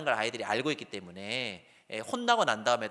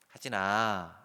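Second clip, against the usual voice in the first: tender call; 4 semitones lower, much slower than usual. Shown as a demonstration. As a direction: call him gently, already forgiving. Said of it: "이렇게 부르면요". (용서하는 아빠의 부드러운 부름)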